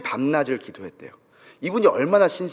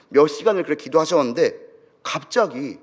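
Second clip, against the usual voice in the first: ordinary delivery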